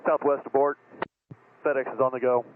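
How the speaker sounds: sharp alarm over the radio; urgent warning call. Real, not acted. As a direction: warn them off the runway right now. Pilot warns of imminent collision.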